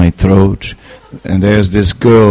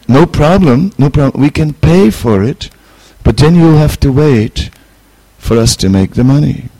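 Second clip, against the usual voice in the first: put-on quoted eager girl; 6 semitones higher, 3 dB louder than usual. Retold girl eagerly agrees.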